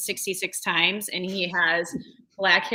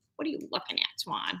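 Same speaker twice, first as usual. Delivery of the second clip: breathy, close whisper; 8 dB quieter than usual. Retelling the bathtub scene with the swan-shaped faucet: Adam Sandler impression. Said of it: "pretty decent Adam Sandler impersonation".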